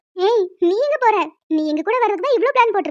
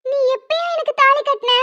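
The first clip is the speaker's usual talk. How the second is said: high, incredulous question on தாலி; can't believe what she hears; stunned question; 6 semitones higher than usual. Acted. Young woman asking the man when he ever tied a thali, stunned.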